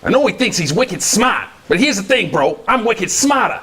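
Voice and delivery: slow, lightly done Boston bro; a hint of a cocky Boston guy; mild Boston accent.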